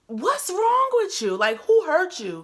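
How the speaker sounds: high, slowed what's wrong; retold incredulous jab. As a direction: taunt her with a high question. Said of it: "And I'm like".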